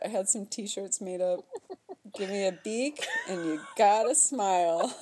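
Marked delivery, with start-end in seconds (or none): 2.1-4.9 hammy T-shirt slogan; slogan delivery. Pretend. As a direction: deliver it like a silly motto.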